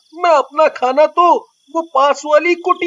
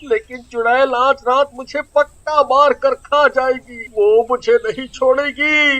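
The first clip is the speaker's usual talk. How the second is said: worried Chilli; 3 semitones lower than usual. Acted.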